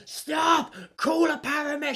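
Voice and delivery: high-pitched mock alarm; imitated panicked shout. Woman at the show as neighbour collapses, panicked. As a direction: act out a frantic cry for help. Retelling woman calling for help.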